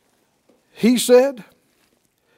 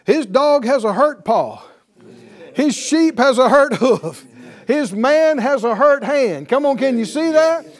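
rising preaching; 4 semitones higher, 5 dB louder than usual. Real, not acted. Preaching climax, building.

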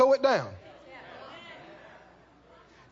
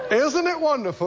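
gushing; 4 semitones higher than usual. Acted. Acts out gushing believer.

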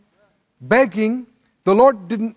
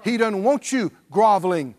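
full-force preaching; 6 semitones higher than usual. Acted. Preacher tells the congregation believers never beg, in full-force preaching. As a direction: preach it out to the whole church.

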